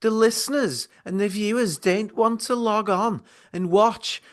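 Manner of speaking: voice of Celeste. Acted. Imagined producer Celeste scolding the two hosts, high put-on voice. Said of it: "maybe this could be the voice of Celeste".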